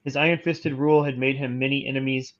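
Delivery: even, measured encyclopedia read; steady informational narration; reading aloud. Real, not acted. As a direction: read the article out formally. Reads an article aloud.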